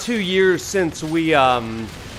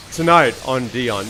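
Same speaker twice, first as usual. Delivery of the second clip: southern drawl that lands on "on Dion"; 4 semitones lower than usual. Shown as a demonstration. Streamer repeats what a viewer misheard, southern drawl. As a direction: lower southern drawl, "I'm" blurred into "on". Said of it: "that's my southern drawl coming out".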